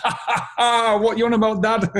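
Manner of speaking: put-on chuckle, voice lifting high at the end; imagined grown-up son laughing. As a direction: play your son laughing at Dad. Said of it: "he's watching this now and probably going".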